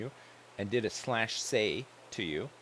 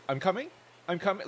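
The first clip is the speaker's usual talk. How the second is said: higher and louder, I'm coming with a rising question tune; gamer talk; 8 semitones higher, 4 dB louder, faster than usual. Pretend. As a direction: call it out like a gamer on comms. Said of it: "it is like gamer talk".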